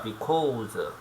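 because stretched out slowly, bi-kaw-seu; slow drawn-out because. Shown as a demonstration. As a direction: draw out because slowly for learners. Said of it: "이유를 설명하겠네".

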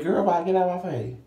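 loud dismissal. Retold or imitated. Dismissing the clerk.

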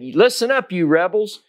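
high-pitched scolding quote; mock rebuke. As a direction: Moses snapping at the people, lightly acted. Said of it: "he said".

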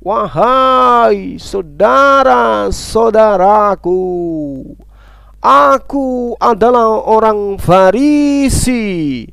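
very slow, drawn-out proclamation; Paul crying out very slowly to his brothers; proclaiming cry. Retold or imitated. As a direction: stretch each word like an apostle calling to a crowd. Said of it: "Paulus berteriak".

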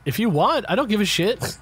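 casual, amused, smiling through it. Real, not acted. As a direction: say it with a grin. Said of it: "hear the smile in Ted's voice".

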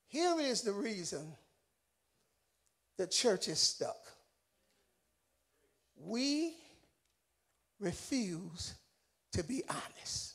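very low, soft, heavily paused; hushed solemn preaching. Real, not acted. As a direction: drop the voice and let each phrase land. Preacher drops low for grave point.

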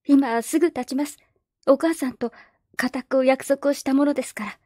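politely but firmly refuse; young girl Perrine. Acted. Orphan girl telling the neighbours she must leave, earnest girlish voice.

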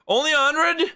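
high, loud disbelief; surprised. Real, not acted. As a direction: squeak it out in disbelief. Surprised at payment.

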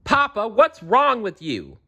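a frightened daughter pleading with Papa; high anxious princess calling out to her father; worried princess. A narrator's reading. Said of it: "she asked".

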